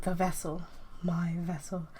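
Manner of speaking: soft hollow whisper; a dying thing calling out; eerie whisper. Acted. Mysterious voice from blackness.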